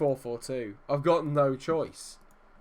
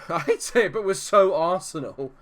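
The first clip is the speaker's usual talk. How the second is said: rueful laugh; 5 semitones higher, 7 dB louder than usual. Real, not acted. Laughing at his own team's failure.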